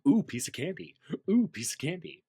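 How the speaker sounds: high, playful little exclamations; high mock-delighted cooing; distracted catchphrase. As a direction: coo as if spotting treats one after another.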